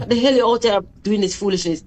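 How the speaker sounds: quick, exasperated reproach; retold mad scolding. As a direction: replay a rapid telling-off. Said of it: "I was so mad".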